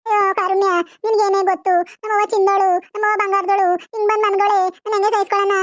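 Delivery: chanted grieving in short, even phrases; theatrical keening; acted wailing lament. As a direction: wail helplessly over your mother. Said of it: "ನನ್ ಮಗ್ಳು ನನ್ನ ನೋಡಿ ಗೋಳಾಡ್ತಾವಳೆ".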